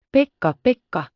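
put-on a child's bright shout of alarm; calling out. A narrator's reading. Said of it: "huusi Heidi".

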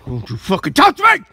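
loud frightened yell; scared and angry. Real, not acted. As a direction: yell it to keep them off. Woman grabbed during quarrel.

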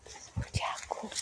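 whispered pet name, voiceless and soft. Real, not acted. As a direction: breathe the pet name to the dog. Cooing to the dog. (szeptem, czule)

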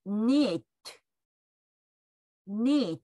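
"Knit" starting on N, crisp final t; English "Knit" with no K sound; silent K. Shown as a demonstration. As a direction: say "Knit" as nit, t released. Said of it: "Kの音が消えて、Nの音だけになります".

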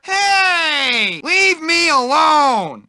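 high, cracking cry; frightened protest. Acted. Bullied nerd cries out to be left alone. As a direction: yelp it out scared.

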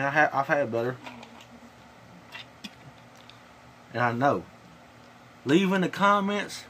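talking around tobacco wad; with dip in lip. Real, not acted. Seen 2: Lower lip looks bulged; he spits into a bottle at 11.9.

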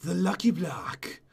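grand, slowed storybook reading; story reading. Acted. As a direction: read it out like a solemn legend, breaking into laughter. Reads the book aloud to friend.

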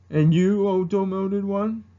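slow, pointed elder; single out the demoted one, slowly; first ancestor. Acted. Ancestor addressing demoted one, slow stern impersonation. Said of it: "and the first ancestor from Mulan".

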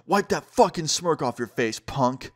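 retold aggressive jab; angry taunt. Basketball player after throwing the ball, imitated angry taunt. Retold attacker insulting the skater.

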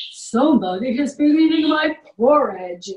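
a hint of a big papa bear; great big voice. A narrator's reading. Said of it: "said Papa Bear in a great big voice".

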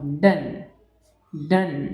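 "डन" with a short open a, rhyming with "nun"; short un sound. Shown as a demonstration. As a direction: say "डन" short, as in done, not don. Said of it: "अनचा sound म्हणत आहोत". ("डन" छोट्या अ सह, डोन नव्हे)

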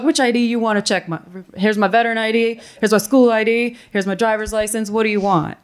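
acted-out irritated challenge; retold anger. Veteran slapping down IDs for a doubter, retold anger. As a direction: rattle off a fed-up challenge. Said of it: "I was real mad".

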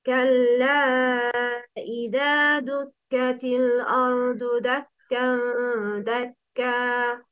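measured Quranic chant; Quran recitation. Shown as a demonstration. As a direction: recite with long held vowels.

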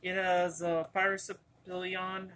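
muffled behind a mask; talking through a cloth mask; through a face mask. Real, not acted. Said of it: "I'm having a face mask on".

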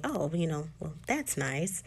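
softly spoken, mildly standoffish reply. Retold or imitated. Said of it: "is kinda standoffish and saying".

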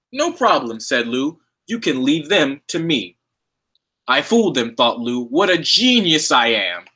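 lively, sing-song rhyming read-aloud; reading to children. Acted. Librarian reading a picture book to children at home, lively. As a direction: tell the rhyming story to little kids.

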